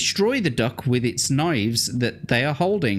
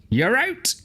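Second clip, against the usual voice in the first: high umpire call; high mock umpire call; 11 semitones higher than usual. A narrator's reading. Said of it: "a voice behind you calls".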